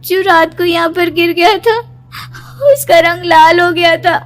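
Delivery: a touch of crying in the voice; tearful. Acted. Daughter points at the spilled milk, tearful. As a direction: still shaken and teary. Still shaken after nightmare.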